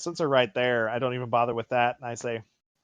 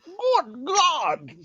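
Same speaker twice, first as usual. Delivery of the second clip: startled exclamation. Acted. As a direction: gasp it out in alarm. Player exclaims at monster.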